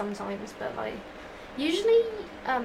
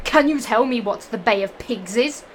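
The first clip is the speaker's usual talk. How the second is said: teacher's question said louder; 7 dB louder than usual. Acted. The teacher quizzing the class, louder than usual. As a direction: put the question to the class loudly.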